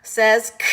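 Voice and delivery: short crisp K sound, no vowel after it. Shown as a demonstration. Teacher modeling the K sound for young learners. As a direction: clip out a bare K like a cough. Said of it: "this is uppercase K".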